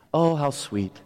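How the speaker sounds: put-on gently remember the baby days; nostalgic. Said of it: "We get nostalgic".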